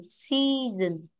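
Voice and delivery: "season" with a drawn-out first syllable; teacher showing "season" as SEA-son; stress on SEA. Shown as a demonstration. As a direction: hold the "sea" in "season", then fall. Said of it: "trọng âm rơi vào si".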